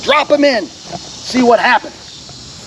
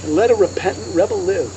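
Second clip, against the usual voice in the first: hymn recitation; 4 semitones lower, 7 dB quieter than usual. Acted. Lecturer recites a hymn verse, solemn recitation.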